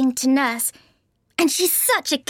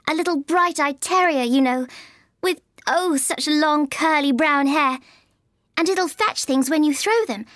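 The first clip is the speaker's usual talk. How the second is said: high-pitched, eager chatter. A narrator's reading. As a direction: gush about a beloved dog in a high voice. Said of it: "so Alice went on eagerly".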